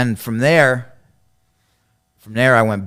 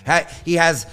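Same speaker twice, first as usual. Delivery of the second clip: high, loud imitated denunciation; mock accusation; 6 semitones higher, 8 dB louder than usual. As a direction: call him out in front of the group, acting it out. Acted accusation in group confrontation.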